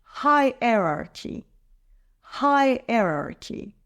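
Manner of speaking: slow "Hierarchy", first syllable stressed. Shown as a demonstration. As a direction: model "Hierarchy" slowly, leaning on its opening syllable. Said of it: "stress is on the first syllable".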